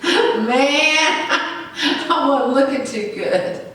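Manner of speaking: chuckling while telling the story; laughing through it. Real, not acted. Preacher laughing at how bad he looked. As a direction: laugh it off between words. Laughing at his own state.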